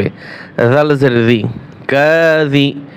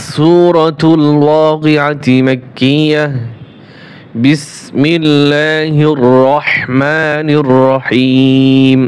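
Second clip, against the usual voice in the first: very slow intoned recitation, drawn-out vowels; Quran recitation; much slower than usual. Shown as a demonstration. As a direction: recite it slowly in tajweed style. Recites surah title, bismillah.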